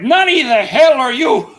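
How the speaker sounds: high, loud hammed-up Japanese yell; overacted anime dub. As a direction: shout it like a cheesy dub samurai. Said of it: "and he's like".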